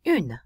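"une" with the final N sounded; N pronounced. Shown as a demonstration. Teacher showing the feminine article, "une" with audible N. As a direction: let the N in "une" pop at the end. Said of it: "that N sound can be pronounced".

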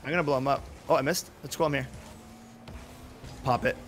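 normal talking voice

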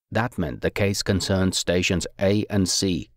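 usual speaking voice

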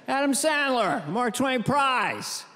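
imitating a whisper. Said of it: "I love when he whispers".

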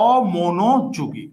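slow, drawn out. Shown as a demonstration. Teacher spelling out a word for students, very slowly. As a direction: stretch each syllable of অমনোযোগী very slowly.

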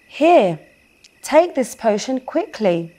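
brisk, urgent nurse voice; urgent fairy nurse. Acted. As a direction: hurry the patient along kindly. Fairy nurse urges Marcy.

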